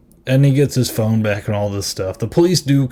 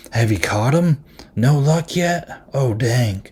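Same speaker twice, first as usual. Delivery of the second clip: mock worried; 3 semitones higher than usual. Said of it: "super worried about it".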